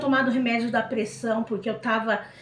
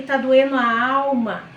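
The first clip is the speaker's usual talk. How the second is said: louder retold cry of anguish; loud, anguished replay of the plea; louder pained outcry; 3 semitones higher, 7 dB louder than usual. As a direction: push it out as a desperate outburst. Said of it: "No que eu falei".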